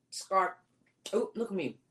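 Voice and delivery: talking through food; mouth full. Real, not acted. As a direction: speak round a mouthful of food. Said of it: "Don't talk with your mouth full".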